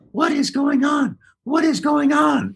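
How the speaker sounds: high, slow bewildered wonder; drawn out in disbelief; baffled. Retold or imitated. Star amazed at the autograph line, high and slow.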